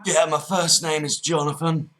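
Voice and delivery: put-on Cockney, th turning to f; Cockney geezer. Prank caller giving his name to the agent, Cockney. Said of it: "full-on Cockney geezer".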